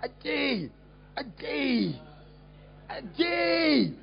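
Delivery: calling a name, the last call crying out. Acted. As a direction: call Ajay, rising to a cry on the last. Calling out to a fallen woman.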